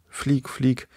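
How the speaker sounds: high, urgent call. A narrator's reading. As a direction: shout for him to take off. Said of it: "rief auch Däumling".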